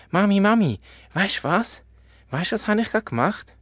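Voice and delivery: a little cub bursting to tell mum news; excited little bear. Acted. Little bear calls mother excitedly. (aufgeregter kleiner Bär, hoch und laut)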